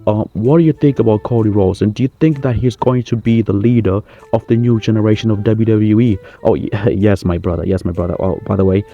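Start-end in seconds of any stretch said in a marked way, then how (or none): 0.1-6.2 a British journalist asking the Rock about Cody Rhodes; funny British accent. Acted. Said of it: "you speak funny".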